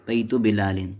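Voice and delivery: बिलालिन ending in a sounded "-in"; tanween on बिलालिन. Shown as a demonstration. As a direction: say बिलालिन with final n after बैतु. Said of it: "यहाँ तनवीन यानी दो ज़ेर हैं".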